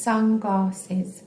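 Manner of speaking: "Sunglasses" in three beats, sun-glass-es; each syllable of "Sunglasses" set apart; split into syllables. Shown as a demonstration. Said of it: "Three syllables".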